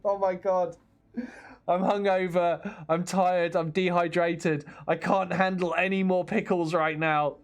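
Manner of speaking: retold exasperation, drawing out the complaints; mock breakdown. Hungover traveller moaning about pickles at the airport, mock breakdown. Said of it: "having a bit of a breakdown".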